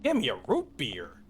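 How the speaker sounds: overacted cartoon dub delivery; anime dub voice. Real, not acted. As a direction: fake enthusiasm, like a dub actor. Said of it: "Why did it come out like that?".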